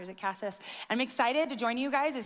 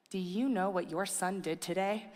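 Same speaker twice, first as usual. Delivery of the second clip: laughing; 4 semitones lower, 4 dB quieter than usual. Retold or imitated. Telling husband with a laugh.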